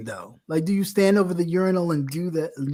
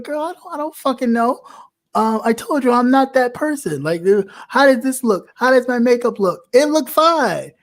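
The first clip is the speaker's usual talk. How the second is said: higher, fed-up sass at a friend's makeup questions; exasperated friend; 6 semitones higher than usual. Retold or imitated. To her girlfriends asking about makeup, exasperated and higher. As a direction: roll your eyes and tell her off. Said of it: "And I was like".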